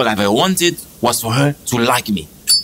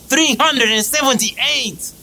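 high, slow, drawn-out disbelief; outraged cry; 10 semitones higher, slower than usual. Acted. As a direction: stretch the number out in outrage. Exasperated outburst over number.

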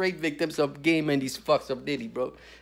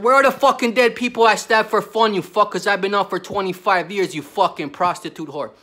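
loud angry shout; retold killer's yell; 3 semitones higher, 7 dB louder than usual. Killer yelling at the naive visitor. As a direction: bellow it like the furious killer. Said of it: "This guy's like".

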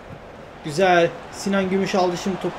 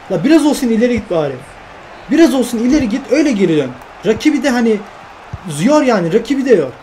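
loud, raised complaint at the player; exasperated scolding; 3 semitones higher, 3 dB louder, faster than usual. Real, not acted. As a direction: vent at him, voice pushed up. Scolding his own player Serdar.

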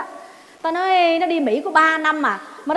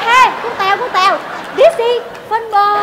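mock Việt Kiều; 5 semitones higher, 5 dB louder than usual. Tèo announcing the cow dung, hammed up. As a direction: act the returnee proudly naming it. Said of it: "Nó nói".

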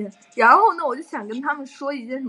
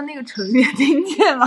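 laughing yell; 6 dB louder than usual. Retold or imitated. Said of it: "他就说".

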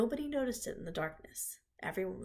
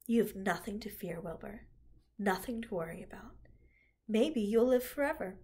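reassuring. Acted. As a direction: lull him toward sleep. Charlotte comforts Wilbur.

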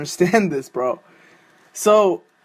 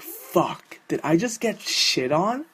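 dismayed whisper; 5 dB quieter, slower than usual. Acted. Realising it's April Fools.

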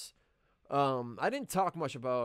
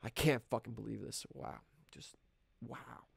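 muttering; 2 semitones lower, 5 dB quieter than usual. Acted. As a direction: grumble it to yourself.

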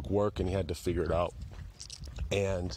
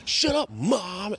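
high, slow whiny yell at mom; bratty teen screaming at his mother; mock angry yell; 12 semitones higher, 5 dB louder, much slower than usual. Teen yelling at mom, a high drawn-out mock yell.

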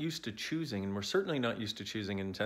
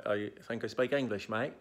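badly faked Aussie accent; bad Australian accent. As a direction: put on a mock Australian twang. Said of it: "That was a really bad accent".

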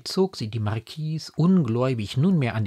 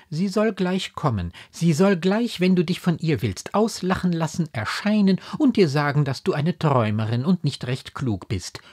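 raised, placating insistence; higher, understated anxious reassurance; suppressed fear; 8 semitones higher, 5 dB louder than usual. A narrator's reading. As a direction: humour her while hiding your worry. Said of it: "die ihre Angst unterdrückte".

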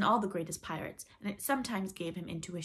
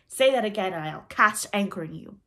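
loud threat in mimicked captain's voice; retorting; 2 semitones higher, 10 dB louder than usual. A narrator's reading. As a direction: threaten like a blustering pirate. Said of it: "the voice retorted".

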